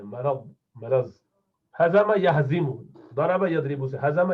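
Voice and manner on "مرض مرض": مرض said slowly as "ma-raz", with a clear short a after the r; slow correct pronunciation. Shown as a demonstration. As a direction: drill مرض slowly, with a zabar on the r. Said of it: "مرض ہے".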